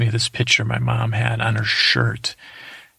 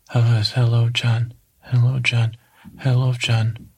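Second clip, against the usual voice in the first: flat, even monotone delivery. Retold or imitated. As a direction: say it all on one note. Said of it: "He would talk like that. He talked very monotone".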